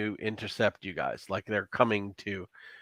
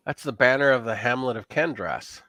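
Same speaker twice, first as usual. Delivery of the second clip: whisper. Acted. GM voices Melville answering.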